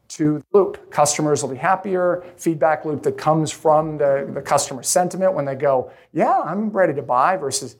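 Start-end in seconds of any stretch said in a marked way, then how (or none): 6.1-7.4 higher, bright eager yes with a rising end. Shown as a demonstration. Customer eagerly agreeing to buy, enthusiastic. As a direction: sound keen to sign right now. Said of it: "That whole accent".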